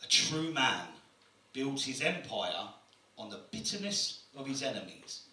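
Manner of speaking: mock profound voice. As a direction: read it like a deep quote. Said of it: "one of them said".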